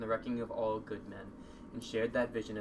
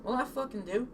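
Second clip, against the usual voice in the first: angry; 11 semitones higher than usual. Acted. Angry character demand.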